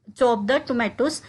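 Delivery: slow, careful drill phrase; slowed classroom demo; slow model phrase. Shown as a demonstration. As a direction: say it slowly for learners to copy. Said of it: "जैसे कि".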